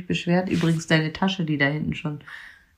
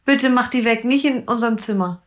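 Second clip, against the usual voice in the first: scared pleading; 4 semitones higher than usual. Real, not acted. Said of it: "ich krieg richtig Schiss".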